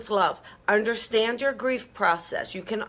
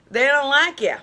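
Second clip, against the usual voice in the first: emphatic repeat; 4 semitones higher, 6 dB louder than usual. Shown as a demonstration.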